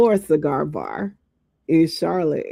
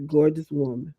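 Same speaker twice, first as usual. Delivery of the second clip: breathy whispered aside; whispering; 4 semitones lower, 4 dB quieter than usual. Real, not acted. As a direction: whisper it under your breath. Aside praising a woman.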